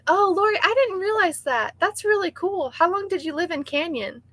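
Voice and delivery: high, delighted surprise; surprised. Real, not acted. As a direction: genuinely caught off guard. Surprised reply to a viewer.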